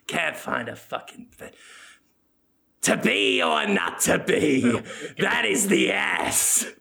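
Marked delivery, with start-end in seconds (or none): 2.8-6.7 slow mock-grand declaiming; hammy Shakespeare recital. Willem reciting to the audience, slow mock-grand recital. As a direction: draw it out like a pompous actor. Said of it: "Willem reciting again".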